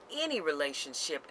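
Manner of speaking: "any" leaned on within "any relationship"; stress on ANY. Real, not acted. Speaker tells listeners they may walk away, stressing "any". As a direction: put the weight of the phrase on "any". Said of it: "I'm gonna stress the word any".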